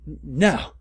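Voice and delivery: frightened cry of no; mock-scared shout of no. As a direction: stammer it out in fear. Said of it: "I shouted in a scared voice".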